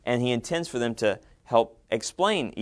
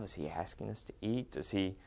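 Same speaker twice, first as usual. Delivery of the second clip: mock puzzled wife; 3 semitones lower, 13 dB quieter than usual. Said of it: "She's, you know".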